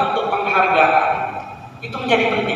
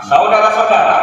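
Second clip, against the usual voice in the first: "saudara-saudara" hit louder, falling at the end; stress on saudara-saudara; 2 semitones higher, 4 dB louder than usual. Shown as a demonstration. A trainer shows teachers how to stress "saudara-saudara", louder. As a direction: press hard on "saudara-saudara". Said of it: "ada kata istilah penekanan".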